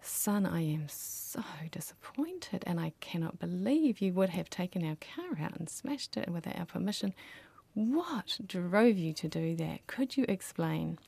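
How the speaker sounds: gentle disappointed parent. Retold or imitated. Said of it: "When you're working the relationship rather than behaviour".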